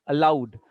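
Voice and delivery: "Aloud" said loud; stress on ALOUD. Shown as a demonstration. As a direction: punch "Aloud" as the answer. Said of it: "in which way?".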